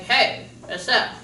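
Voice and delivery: slow, mushy words with a loose unmoving face; slack-jawed talking. Shown as a demonstration. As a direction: talk like you just left the dentist numb. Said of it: "funny to watch people try and talk like this".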